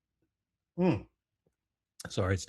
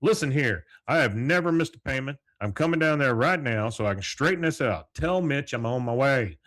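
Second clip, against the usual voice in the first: indignant Hank; 4 semitones higher, 5 dB louder than usual. Retold or imitated. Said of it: "He goes".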